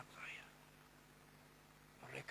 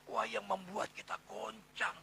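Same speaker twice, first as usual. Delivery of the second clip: louder, higher, drawn-out exclamation; emphatic preaching; 5 semitones higher, 9 dB louder, slower than usual. Real, not acted. Preacher warns congregation of life's shocks, emphatic preaching. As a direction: stretch it out for the congregation.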